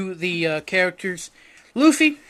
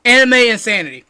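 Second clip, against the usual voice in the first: weeb host voice; 3 semitones higher, 8 dB louder than usual. Acted. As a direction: pump it up like an over-eager anime fan. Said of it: "I don't know why I'm talking like this".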